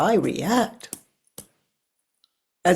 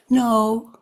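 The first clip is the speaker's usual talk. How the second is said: firm no; 5 semitones higher, 6 dB louder than usual. Real, not acted. Rejecting the idea firmly.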